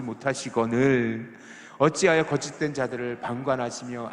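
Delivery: measured, deliberate scripture recitation; scripture reading. Acted. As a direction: read the verse aloud together, steadily. Congregation reads scripture aloud. (성경 봉독하듯 또박또박)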